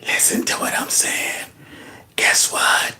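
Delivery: soft far-off mock whisper; hushed imitation of a creepy whisper. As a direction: lean into the mic and whisper creepily. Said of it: "He's like".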